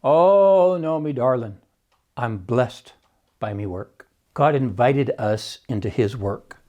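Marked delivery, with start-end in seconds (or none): 0.0-4.1 Irish brogue. Retold or imitated. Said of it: "in his character's Irish brogue".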